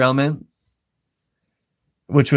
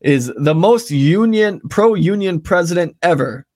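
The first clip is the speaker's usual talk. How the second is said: sarcastic; 4 semitones higher than usual. Real, not acted. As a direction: say it with air quotes. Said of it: "in quotations".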